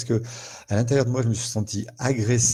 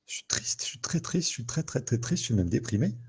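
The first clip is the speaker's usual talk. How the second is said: softer, breathy sad whisper; voicing sadness; 3 semitones higher, 3 dB quieter than usual. Shown as a demonstration. Coach showing how one admits sadness, whispered. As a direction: whisper the sadness, half-voiced. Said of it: "si on veut sortir d'une émotion".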